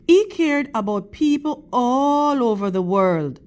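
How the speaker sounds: steady, expressive storybook reading to a class; reading to children. Acted. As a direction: read the picture book to the kids, clear and measured. Teacher reads picture book aloud.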